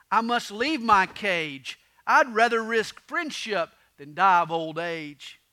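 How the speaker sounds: measured, resolute declaration; firm. Acted. Porcupine Willie answers Bill's warning, firm. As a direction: stand your ground, weighting each word. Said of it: "Willie said firmly".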